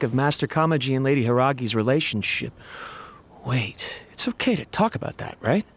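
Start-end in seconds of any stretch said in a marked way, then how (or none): 3.4-5.6 a quick hushed whisper. Acted. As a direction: drop to a whisper, suddenly cautious. Sudden worry, checking discretion.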